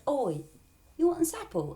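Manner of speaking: high, loud tempting snake voice; sly snake. Acted. Snake tempting Eve with an apple, sly and loud. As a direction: offer the apple like a sly serpent. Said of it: "the snake's like".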